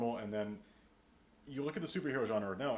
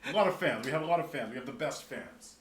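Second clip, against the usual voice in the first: hyping; 3 semitones higher, 6 dB louder than usual. Acted. Hyping the fan base.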